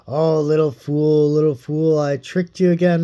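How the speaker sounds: lightly voiced villain, gloating; gloating laugh. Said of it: "he laughed and said to her".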